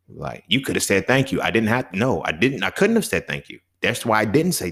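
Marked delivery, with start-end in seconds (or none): 1.1-1.4 a bright, gracious thank you; polite thank you. Retold or imitated. Accepting a gift he doesn't want, a polite thank-you. 3.3-3.6 a much softer, lower, grudging thank you; reluctant thank you. Retold or imitated. Forced to thank for an unwanted gift, a grudging mumble.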